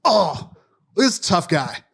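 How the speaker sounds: hammed-up tough-guy dare, rising to a squeak; mocking taunt. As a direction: mimic the loudmouth squaring up, pitch climbing. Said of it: "he looks back at me and goes".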